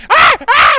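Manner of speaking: angry crow. Retold or imitated. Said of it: "like an angry crow".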